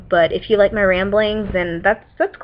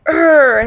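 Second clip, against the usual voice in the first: frustrated growl; 7 semitones higher, 6 dB louder than usual. Retold or imitated. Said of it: "and I feel all".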